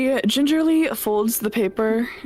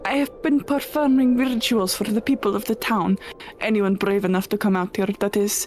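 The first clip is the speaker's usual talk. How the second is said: clipped foreign-ish witch, unsure; lonely witch defending her tower; witch character; 3 semitones higher than usual. Acted. Player voices the witch.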